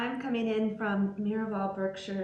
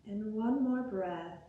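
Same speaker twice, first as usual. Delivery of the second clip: guided meditation. Acted. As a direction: guide them gently into breath and body, unhurried. Leads guided breathing meditation.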